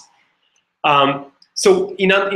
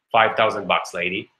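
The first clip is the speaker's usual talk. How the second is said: lower, blunt artist's voice; dry Picasso; 5 semitones lower than usual. Retold or imitated. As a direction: state the price flatly like the master. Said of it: "And Picasso is like".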